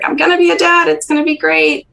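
a dad hearing the news, retold with delight; overjoyed retold quote. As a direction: let it burst out like a thrilled father-to-be. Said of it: "He was so happy".

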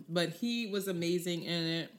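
talking while eating; words round a bite of food; mouth full. Real, not acted. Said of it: "I'm sorry, I'm eating right now".

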